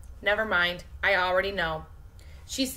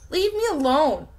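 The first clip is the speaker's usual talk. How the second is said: mock scream; 7 semitones higher, 5 dB louder than usual. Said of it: "I wanted to scream".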